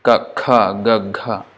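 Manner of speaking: ka, kha, ga, gha each distinct; velar series. Shown as a demonstration. Teacher reciting the velar series. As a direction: contrast all four velars clearly. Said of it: "all these differences are there".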